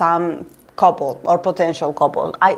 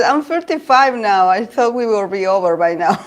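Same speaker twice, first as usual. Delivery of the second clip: amused mock lament. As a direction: quote his complaint while starting to laugh. Retold complaint, breaking into laughter.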